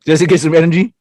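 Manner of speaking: talking while eating; words around a bite of food; mouth full. Real, not acted. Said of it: "I'm sorry I'm eating".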